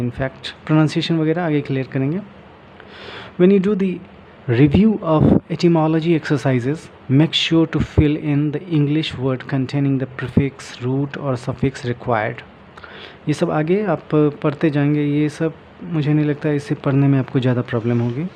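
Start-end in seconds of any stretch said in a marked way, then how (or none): 3.4-12.4 slow, careful reading from the book; reading aloud. Shown as a demonstration. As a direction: read each phrase out slowly for learners. Reading book text aloud slowly. (किताब से धीरे-धीरे पढ़ना)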